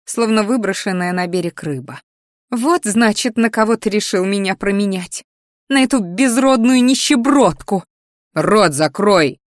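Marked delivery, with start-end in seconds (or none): 2.5-7.8 jealous outburst. Acted. 8.3-9.4 slow, louder hissed order; gritted angry command. Acted. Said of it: "злобно процедил Кириан".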